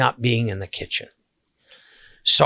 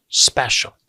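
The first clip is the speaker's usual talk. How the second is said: whispered special. Retold or imitated. Happy client sighs that the party was special, in a whisper. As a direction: breathe the word special out as a whisper.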